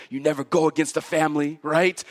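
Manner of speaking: lightly attempted Italian mobster accent; a hint of Italian in a quick family warning. Preacher voicing a mafia member to the congregation, mild Italian accent. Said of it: "my best Italian accent".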